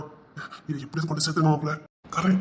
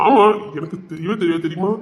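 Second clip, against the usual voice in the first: imitating her talk. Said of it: "இவளே மாதிரி பேசுனா".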